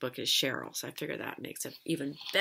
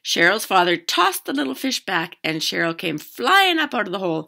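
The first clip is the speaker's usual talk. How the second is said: lively read-aloud, louder than chat; story narration; 3 semitones higher, 12 dB louder than usual. A narrator's reading. Teacher reading a fishing story to children, animated narration. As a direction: read a picture book out to children.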